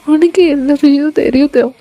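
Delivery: mildly upset acted heroine; understated weepy plea; tearful pleading. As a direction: beg him to let go, with a touch of tears. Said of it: "அப்படின்னு நீங்க அழறீங்க".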